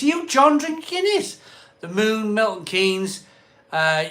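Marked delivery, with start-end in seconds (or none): 0.0-1.4 teasing. Real, not acted. Teasing John about Guinness.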